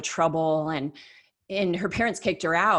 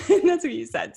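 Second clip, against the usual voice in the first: laughing; 8 semitones higher, 6 dB louder than usual. Real, not acted. Laughing at exaggerating a quote.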